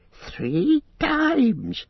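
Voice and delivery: high, frightened creature whimper; Gollum whimpering. Acted. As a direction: whimper it in terror of the winged shape. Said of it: "he whimpered".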